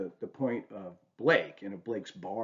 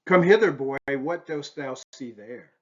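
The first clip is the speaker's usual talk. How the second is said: put-on a loud high call of "Come hither, boy", then slower; mock-solemn old master calling his pupil; 4 semitones higher, 6 dB louder than usual. Shown as a demonstration. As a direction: summon the boy like an old sage. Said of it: "as he once wrote in this little quip".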